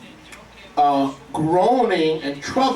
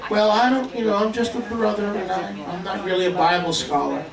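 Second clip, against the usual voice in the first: a hint of fake modesty; mock false humility; 3 semitones higher than usual. Preacher mocking a falsely humble brother, mild meek voice. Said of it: "showing false humility".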